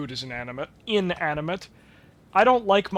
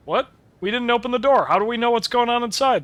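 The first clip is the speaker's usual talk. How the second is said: incredulous; 7 semitones higher, 6 dB louder than usual. Real, not acted. Objects to game's impossible info.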